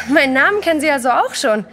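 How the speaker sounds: spöttisch auflachend, etwas lauter; ungläubig lachend. Acted. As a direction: mit einem Lachen über die Frechheit. Kellnerin lacht ungläubig. (lachend, ungläubig und spöttisch)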